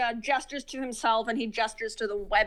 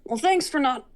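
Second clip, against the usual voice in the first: softening. Acted. Creature thanking visitor for sparing his dogs, softening. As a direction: let the voice drop as you soften. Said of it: "he seems to soften".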